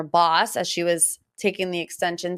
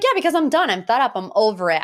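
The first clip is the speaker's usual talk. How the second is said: fed-up outburst; 3 semitones higher, faster than usual. Retold or imitated. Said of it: "she's like".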